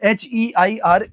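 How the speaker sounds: slow, letter by letter: H E I R; slow spelling. Shown as a demonstration. Teacher spelling heir slowly for the class. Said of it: "इस शब्द का बहुत खास ध्यान रखना है".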